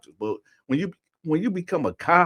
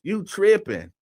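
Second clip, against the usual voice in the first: high, raised voice imitating a protest; louder overheard protest; 7 semitones higher, 4 dB louder, much slower than usual. Overheard man in the prison bathroom, imitated loud protest. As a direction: cry out stop as the overheard man. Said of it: "it get louder and louder".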